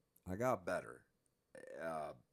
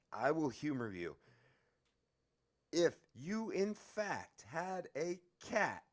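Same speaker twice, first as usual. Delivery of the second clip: much higher, mock patient guard voice; a guard humoring a crazy inmate; condescending guard; 6 semitones higher, 4 dB louder than usual. Mocking the guard's patient reasoning.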